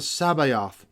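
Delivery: "Sabaoth" said as sah-BAH-oth, stress on the middle syllable; odd pronunciation. Retold or imitated. Quoting the preacher's odd way of saying the Lord's title, "Sabaoth" as sah-BAH-oth. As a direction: copy his "Sabaoth", each vowel drawn out and stressed in the middle. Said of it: "why he pronounces it that way".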